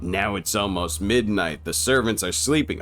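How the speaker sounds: slow, low, hushed vampire host; Count Orlok. Acted. Count Orlok receiving Hutter at midnight, slow ominous welcome. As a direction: draw it out low and soft, ominously.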